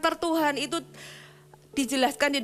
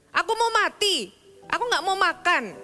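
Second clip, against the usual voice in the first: petulant whine; 5 semitones higher than usual. Acted. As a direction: whine it like a stubborn child. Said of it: "Elia bisa berkata". (merengek keras, lebih tinggi dan ngambek)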